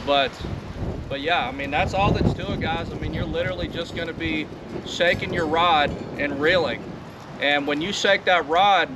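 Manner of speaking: talking over wind noise; recorded outside in wind; windy outdoors. Real, not acted. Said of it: "it's awfully windy out here".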